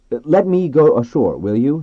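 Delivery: asking dolphins. A narrator's reading. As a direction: project the request over the crowd of dolphins. Man calling request to dolphins.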